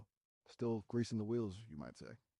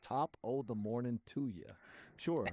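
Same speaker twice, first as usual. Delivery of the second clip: Irish accent; 3 semitones higher, slower than usual. Shown as a demonstration. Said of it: "speak in, like, an Irish accent".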